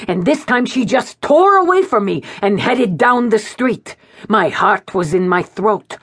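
lightly voiced anxious old man. A narrator's reading. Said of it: "I snarled unsympathetically".

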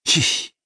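short hushing scrape noise; sliding tray sound. A narrator's reading. Narrator imitates the empty tray pulled out, scraping noise. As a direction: imitate a tray being dragged away. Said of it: "das leere Tablett vom Vortag".

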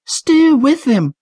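high, slow shouted order; shouting. A narrator's reading. Trish shouting her sudden idea to Patrick, high shout. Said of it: "she shouted".

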